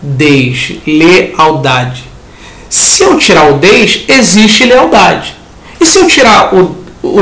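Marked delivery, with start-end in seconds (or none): 0.0-2.0 "Deslealdade" drawn out very slowly, every syllable held; slow teaching "Deslealdade"; stretched out slowly. Shown as a demonstration. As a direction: take "Deslealdade" apart slowly for the class. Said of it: "Por exemplo, a palavra deslealdade".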